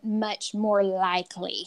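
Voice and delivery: slow, measured echo of a friend; drawn-out quote. Retold or imitated. Co-host teasingly repeats her friend's phrase, drawn-out. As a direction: stretch the words out while quoting her. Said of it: "I like the way you said".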